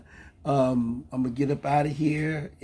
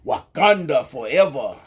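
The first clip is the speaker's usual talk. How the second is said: Wakanda salute; 3 dB louder than usual. Shown as a demonstration. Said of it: "let's do this one too".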